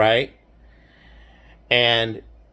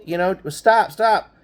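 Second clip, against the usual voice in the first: retold begging; 4 semitones higher than usual. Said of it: "And so I'm begging him".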